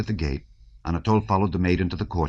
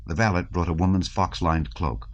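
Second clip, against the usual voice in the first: ordinary delivery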